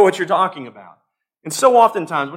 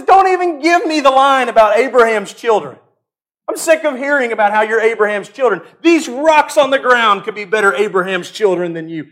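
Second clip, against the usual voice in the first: exasperated rebuke; 4 dB louder than usual. Retold or imitated. John the Baptist scolding the Pharisees, exasperated. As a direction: scold them, sick of the excuse. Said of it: "He says".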